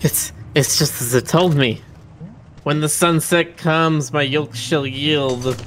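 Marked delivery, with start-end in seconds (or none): 2.6-5.6 epic fantasy narrator. Pretend. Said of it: "You're making it weird".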